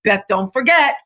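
inner critic voice. Retold or imitated. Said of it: "So it says something like".

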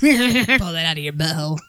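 lightly voiced ghoulish prankster; a hint of a raspy ghoul; Beetlejuice voice. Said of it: "Why did you sound like Beetlejuice?".

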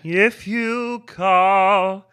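mock Canadian accent, slow; exaggerated slow Canadian accent. Shown as a demonstration. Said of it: "That's my Canadian accent".

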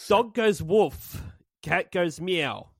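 가사 낭독; lyric reading. Shown as a demonstration. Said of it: "listening to the speaker read the lyrics".

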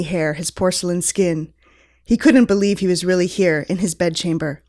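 lightly dramatic story reading; story narration. Acted. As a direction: read it like a romance novel. Reads fan fiction aloud.

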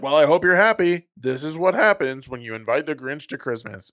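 a touch of a smug scolding mayor. Retold or imitated. Mayor blaming Cindy for inviting the Grinch, smug.

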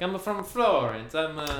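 high, slow mock Italian accent; thick Italian accent. Imitating the guy from Florence, slow thick Italian accent. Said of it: "he had the thickest Italian accent ever".

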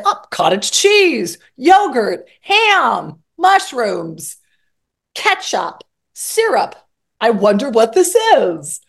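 a hint of a clueless cook rummaging; aimless fridge browsing. Cook with no recipe rummaging in the fridge, lightly puzzled listing. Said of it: "open the refrigerator and say".

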